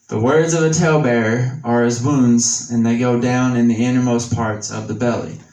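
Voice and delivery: scripture reading. Acted. Reads Proverbs in scripture voice.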